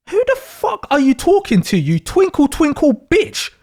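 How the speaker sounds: acted, affronted comeback; angry retort. Acted quarrel, insulted sign snaps back.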